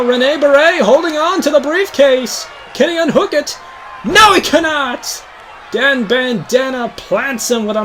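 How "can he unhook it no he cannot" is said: high, urgent question and answer; tense question, then an emphatic cry; excited commentator call. Real, not acted. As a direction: call the near win with rising excitement. Commentator calls a near win.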